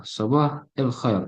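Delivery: "Sabah el khair" slow, with e in "el"; kasrah pronunciation. Shown as a demonstration. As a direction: say "Sabah el khair" slowly, colloquial "el". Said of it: "Jadi dia lebih ke kasrah".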